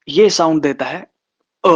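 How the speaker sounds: slow, drawn out, ending on a short अ; slow demo. Shown as a demonstration. Teacher introducing the second place light dash sound, slow. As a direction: present the vowel अ deliberately. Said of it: "second place light dash".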